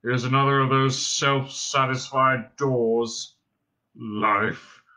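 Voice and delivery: low, slow, miserable drone; depressed robot. A narrator's reading. Robot moaning to his companions, droning depressedly. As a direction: drone on in bottomless self-pity. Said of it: "I'm so depressed".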